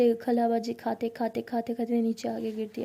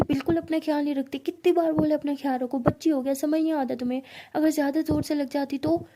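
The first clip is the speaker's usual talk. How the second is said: raised, scolding tone at a careless friend; 3 semitones higher than usual. Retold or imitated. Ishani scolding Pari after her fall, raised voice. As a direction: tell her off for not looking after herself. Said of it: "अरे डांट क्यों रही हो".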